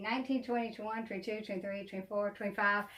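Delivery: very soft, under-the-breath count; tally quietly to yourself; barely voiced running count; counting to oneself. Real, not acted. Recounting her dolls to herself.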